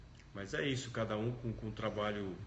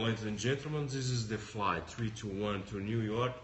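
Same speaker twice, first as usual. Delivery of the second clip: pilot announcement; slower than usual. Retold or imitated. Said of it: "voz de comandante de avião".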